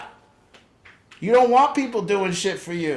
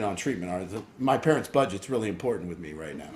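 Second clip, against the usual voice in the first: put-on concerned kid; 7 semitones lower, 4 dB quieter than usual. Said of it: "they start getting very concerned".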